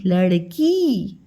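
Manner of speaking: लड़की drawn out slowly, long ई at the end; slow syllable demo. Shown as a demonstration. Teacher to young pupils, sounding out लड़की slowly. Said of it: "और ये हो गया की".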